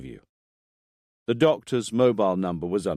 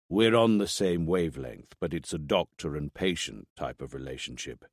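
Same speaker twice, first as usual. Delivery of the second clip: deeper voice; 4 semitones lower, 5 dB quieter than usual. Acted. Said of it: "Rinaldi's voice sounded a lot deeper on tape".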